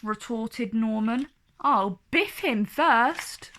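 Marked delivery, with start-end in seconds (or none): 1.6-3.5 boastful. Acted. Boastful hero threat.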